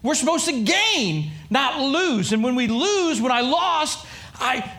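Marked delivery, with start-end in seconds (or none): 0.0-2.3 higher, pleading protest that it's unfair; retold exasperated rant; exasperated complaint. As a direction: complain like the plan betrayed you. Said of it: "I was like".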